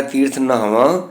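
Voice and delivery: ਨਹਾਵਾਂ with a light h after the n; half-h pronunciation. Shown as a demonstration. Teacher showing how to recite the verse, half-h pronunciation. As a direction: sound a soft h inside ਨਹਾਵਾਂ. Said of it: "ਉਚਾਰਨ ਅਸੀਂ ਇਸ ਤਰ੍ਹਾਂ ਹੀ ਕਰਨਾ ਹੈ".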